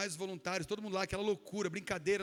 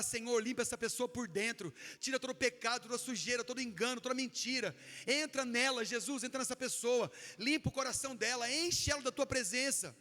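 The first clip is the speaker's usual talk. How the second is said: fervent prayer; 3 semitones higher than usual. Shown as a demonstration. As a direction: plead with Jesus, unhurried. Demonstrates the prayer to declare.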